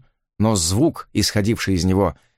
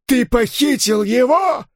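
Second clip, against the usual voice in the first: accusing shout; 14 semitones higher, slower than usual. Acted. Gangster accusing the hero of kidnapping, furious high shout. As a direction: hurl the accusation at him. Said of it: "закричал он".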